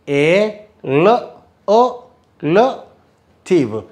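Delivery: slow A L O, then relative; syllable drill. Shown as a demonstration. Teacher breaks relative into parts for students. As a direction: spell out the syllables slowly. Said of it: "drills the syllables".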